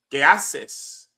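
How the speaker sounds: casual "¿Qué haces?" in Mexican Spanish; easy, conversational "¿Qué haces?". Shown as a demonstration. Teacher models everyday Mexican Spanish question. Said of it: "That's not standardized".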